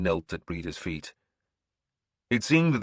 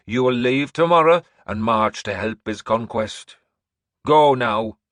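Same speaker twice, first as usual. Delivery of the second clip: put-on old seeress ordering; 4 semitones higher, 9 dB louder than usual. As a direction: summon him to the throne. Breda orders.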